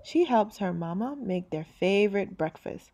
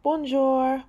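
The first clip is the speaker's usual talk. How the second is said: friendly greeting; 6 semitones higher, 5 dB louder than usual. Acted. Baker greets.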